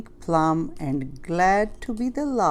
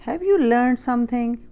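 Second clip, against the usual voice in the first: knowing witch; 7 semitones higher, 6 dB louder than usual. A narrator's reading. Witch asks Pinkerton.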